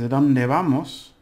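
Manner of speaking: "¿A dónde vamos?" said slowly and loudly, stress on "dónde"; slow model phrase. Shown as a demonstration. Teacher reading "¿A dónde vamos?" slowly to learners. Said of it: "it says".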